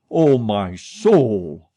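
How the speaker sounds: slow, drawn-out sighed plea; sighing. A narrator's reading. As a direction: sigh it out slowly, close to fainting. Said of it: "sighed Moncharmin".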